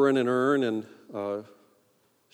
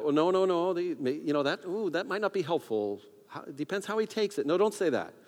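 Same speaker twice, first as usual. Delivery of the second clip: higher-pitched anxious self-debate; flustered second-guessing; 5 semitones higher than usual. Acted. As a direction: argue with yourself, hesitant and higher. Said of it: "And then I thought".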